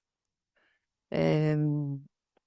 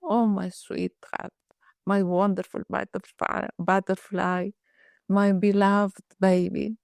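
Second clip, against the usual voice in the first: loving. Retold or imitated. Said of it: "with love, loving words".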